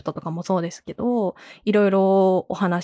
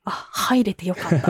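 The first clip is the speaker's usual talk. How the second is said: a glad inner thought, chuckling; laughing happy thought. Retold or imitated. Telling the host what she felt, with a light laugh. Happy quote of own feeling.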